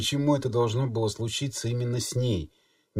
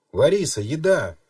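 зов; 5 semitones higher, 5 dB louder than usual. A narrator's reading. Лиза зовёт через дверь.

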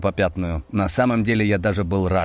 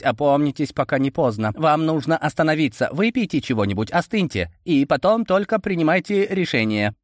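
put-on higher, urgent pleading old man; Koshchei pleading; 7 semitones higher than usual. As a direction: beg him to stop, rising. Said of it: "воскликнул Кощей".

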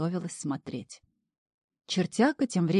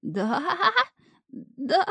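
slight stammer; 10 semitones higher than usual. A narrator's reading. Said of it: "слегка заикнулся Шнырь".

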